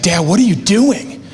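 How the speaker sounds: daughter pleading. Retold or imitated. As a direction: play the fussy little girl. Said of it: "she's like".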